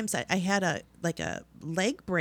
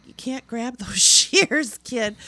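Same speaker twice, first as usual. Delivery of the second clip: stern warning; 5 semitones higher, 9 dB louder, slower than usual. Retold or imitated. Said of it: "And it's like".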